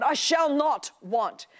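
emphatic, unhurried Bible recitation; scripture reading. Acted. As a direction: read scripture aloud deliberately, weighting each phrase. Reads the psalm aloud.

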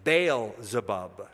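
slow "Baal-zebub", first part rhyming with "pale"; original pronunciation. Shown as a demonstration. Teacher giving the original word, "Baal-zebub" drawn out as BAYL-zuh-bub. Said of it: "The original word is".

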